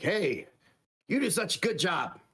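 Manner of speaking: high-pitched storybook praise; lightly put-on approving cat voice; mock praise. Daddy cat to the nanny, approving.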